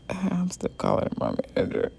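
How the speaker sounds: quick aside breaking into laughter; amused aside. Real, not acted. Teller catching herself saying my manager, laughing aside. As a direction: rush it out through a real laugh.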